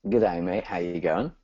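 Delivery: having a go at Australian; attempted Aussie accent. Shown as a demonstration. Guest tries host's Aussie greeting on request, imitated Aussie accent. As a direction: imitate an Aussie greeting, not quite convincingly. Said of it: "in your best Aussie accent".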